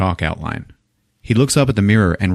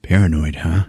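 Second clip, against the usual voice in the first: tag dry; 4 semitones lower than usual. Retold or imitated. Stone's dry retort to chief.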